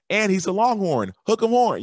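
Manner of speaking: high, loud, hammed-up Texas cheer; a playful imitation of Bush whooping for the Longhorns; imitating Bush cheering for a Longhorn fan. Bush chiming in on stage.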